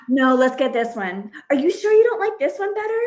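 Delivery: high, quick, wheedling push toward another shirt; pushy coaxing mom. Retold or imitated. Mom in Target talking her son into another shirt, coaxing. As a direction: steer the kid with a coaxing high voice. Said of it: "trying to convince him".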